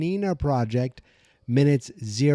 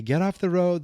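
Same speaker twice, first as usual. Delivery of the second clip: raised-pitch imitated yell, moderate volume; mock yell; 7 semitones higher, 4 dB louder than usual. Kids warning about the car, mock yelling. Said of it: "they start yelling".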